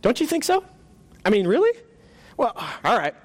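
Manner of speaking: high, fretful ghost voice; nervous ghost voice. Acted. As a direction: play a flustered, embarrassed ghost. Ghost keeps bargaining.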